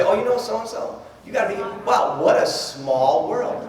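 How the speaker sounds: slow, drawn-out gushing over a coincidence; mock gushing small talk. Quoting a partygoer at a networking party, slow gushing. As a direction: play up the fake delight of party chatter. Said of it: "What's the common thing we say?".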